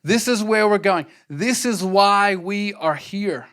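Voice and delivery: rousing declaration, slowing on the last line; rally the team, building to the final line; rallying cry. Retold or imitated. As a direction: proclaim the team's purpose like a chant. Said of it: "it's kind of a rallying cry".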